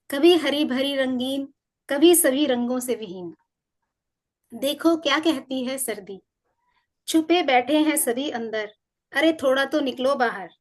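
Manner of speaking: measured verse reading with pauses between lines; poetry read aloud to listeners; poem recitation. Acted. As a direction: recite it line by line, unhurried. Recites own poem on winter.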